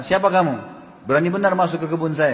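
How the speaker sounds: a touch of angry challenge, retelling the garden owner; mildly indignant, demanding who dares intrude; retold anger. Garden owner confronting an intruder, mild retold anger. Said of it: "Lalu dia marah".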